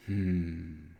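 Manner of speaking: thoughtful hum. Acted. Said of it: "she says".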